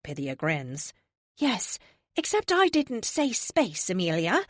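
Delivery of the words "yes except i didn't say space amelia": serene higher oracle, gently amused. Acted. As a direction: speak like a calm ancient seer. Oracle character voice.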